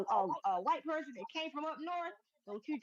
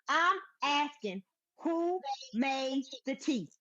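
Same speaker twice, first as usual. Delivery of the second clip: deliberate; 4 dB louder, much slower than usual. Real, not acted. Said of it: "Tea is very serious for me".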